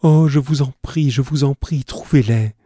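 high, pained pleading that eases at the end; anguished cry. A narrator's reading. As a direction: beg as if it hurts. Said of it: "une sorte de cri de souffrance". (supplication aiguë, cri de souffrance)

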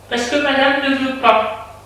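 high, deferential servant voice; maid. A narrator's reading. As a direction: explain as the maid, pitched high. Maid explains madame's order. (bonne à la voix haute)

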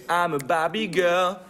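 put-on slow French take on an English accent; sing-speak it with an English accent. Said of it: "Tu as un accent anglais".

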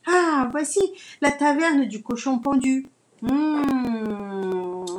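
high, loud, eager little hen; lively young hen. Acted. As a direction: chirp it out excitedly. Hen arrives at tavern.

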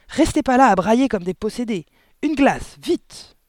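high, loud, impatient father; yelled order. A narrator's reading. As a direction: bawl at them to hurry. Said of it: "hurla le père". (ordre hurlé, aigu et impatient)

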